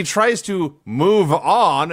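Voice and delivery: "tries to move on" drawn out slowly, as if in quotation marks; air quotes. Real, not acted. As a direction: set "move on" apart with sceptical emphasis. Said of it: "I'm doing quotes with my fingers".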